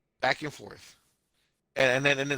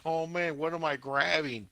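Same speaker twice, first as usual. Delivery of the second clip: mild, higher-pitched mock panic; mock freak-out; 5 semitones higher than usual. Podcaster acting out the anime guy's surprise, mock freak-out. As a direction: imitate him lightly freaking out. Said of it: "freaking out".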